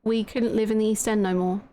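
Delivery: confessing, lightly voiced Cockney character; lightly voiced East End witness. East End witness admits lying in court, lightly in character. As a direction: own up as a lightly acted East Ender.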